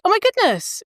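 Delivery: high-pitched, acted excitement; delighted surprise. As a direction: react with eager, wide-open delight. Acts out her delighted first reaction.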